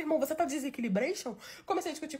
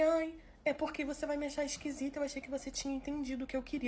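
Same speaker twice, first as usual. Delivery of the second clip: soft, quieter imitation of a sheepish boyfriend; 6 dB quieter than usual. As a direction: say it softly, a little embarrassed.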